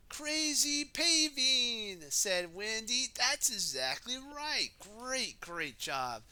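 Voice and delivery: loud, high and slow excitement; Wendy delighted. Acted. Wendy praising Dizzy, loud high delight. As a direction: exclaim the idea with delight.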